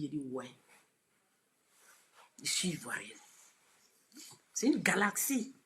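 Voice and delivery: ordinary talk, nothing marked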